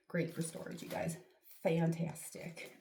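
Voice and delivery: deadpan it, slow on Fantastic; mock praise for a makeshift cabinet; dry sarcasm. Real, not acted. Sarcastic about junk corner.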